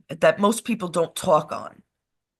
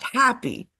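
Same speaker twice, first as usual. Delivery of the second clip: laughing; 5 semitones higher, slower than usual. Real, not acted. Laughing over the woman named Happy.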